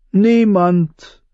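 mock friendly; friendly agreement. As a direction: agree pleasantly. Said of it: "stimmte er freundlich zu".

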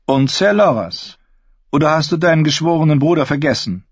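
high, cold, haughty queen; evil queen. Acted. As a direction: sneer down at him as queen. Cersei needling Jaime.

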